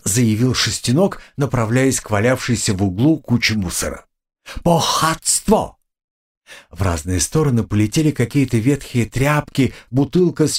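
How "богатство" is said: high, slow creature squeak; squeaky creature. Acted. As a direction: stretch it out like a greedy critter. Pet cockroach finds treasure.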